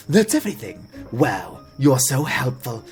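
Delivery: lightly voiced mayor's son; a hint of eager admirer, lively pitch; grateful young villager. Mayor's son praising the helpful adventurer, lightly grateful.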